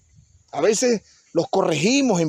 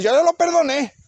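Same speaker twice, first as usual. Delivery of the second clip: resentful fake forgiveness; 5 semitones higher than usual. Someone who claims to have forgiven a man, bitterly resentful. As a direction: claim you forgave while clearly still spiteful. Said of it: "hay gente que dice".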